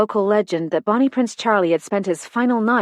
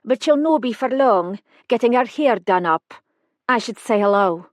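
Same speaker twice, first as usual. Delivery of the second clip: put-on Highland accent; 3 semitones higher than usual. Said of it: "the accent pure Highlands".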